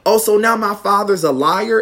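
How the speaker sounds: high-pitched retold challenge; mock challenge. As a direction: imitate an affronted mother picking a fight. Acted quarrel, mother challenging.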